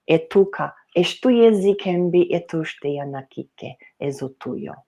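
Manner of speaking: chanted unknown language; rhythmic trance-like speaking; channeling in tongues. Acted.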